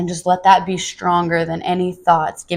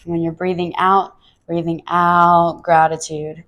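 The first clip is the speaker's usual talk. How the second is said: breathing mantra. Shown as a demonstration. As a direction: stretch it out like an exhale. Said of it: "just rehearse to yourself".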